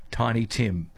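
ordinary talk

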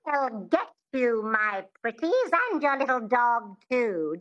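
lightly witchy, stretched out cackling threat; a hint of the Wicked Witch of the West. Shown as a demonstration. Dialect coach demonstrating the witch line for the host. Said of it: "Think of the Wicked Witch from The Wizard of Oz".

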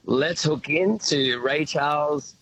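radio presenter voice. Pretend. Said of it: "in your best radio presenter voice".

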